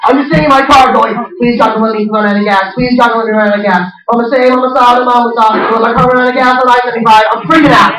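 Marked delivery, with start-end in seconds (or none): 1.4-7.2 mock prayer on a level, chant-like pitch; comic droning car prayer; praying. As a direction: plead with God in a monotone mumble. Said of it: "spending the whole drive home praying".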